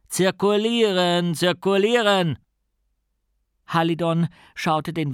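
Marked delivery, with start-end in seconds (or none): 0.1-2.4 loud, high, drawn-out command; called-out order. A narrator's reading. Policeman disperses a crowd, shouted order. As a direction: call it out like a policeman clearing a crowd. Policeman moves the boy along.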